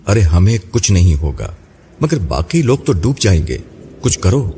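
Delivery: lightly voiced panic, no real shout; urgent, pitch-lifted plea, kept at talking volume; panicked outcry. Naima pleads for the drowning passengers, mildly acted panic. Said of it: "Naima گھبراہٹ میں چلا کر بولی".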